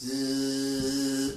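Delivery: slow mechanical buzzing; drawn-out zzz of a cabinet motor; imitated motor whirr. Imitating the slowly opening cabinet.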